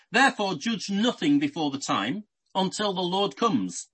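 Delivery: solemn Bible reading voice; scripture reading. Acted. Reads verse aloud.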